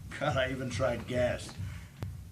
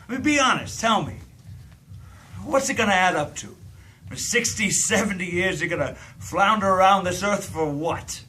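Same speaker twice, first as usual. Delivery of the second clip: higher and louder, pushing hard for an answer; pressing outburst; 5 semitones higher, 4 dB louder than usual. Acted. Demanding the girl be honest about her life, loudly. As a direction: corner her with the question.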